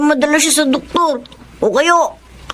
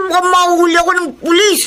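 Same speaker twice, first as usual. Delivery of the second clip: scared rush; 2 semitones higher, faster than usual. Acted. Boy scared of police.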